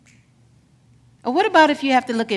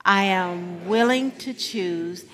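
affirmation leading; 2 semitones lower, 3 dB quieter than usual. Acted. Leads affirmation call and response.

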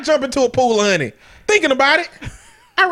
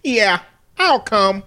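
put-on British accent. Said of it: "stereotypical ass British accent".

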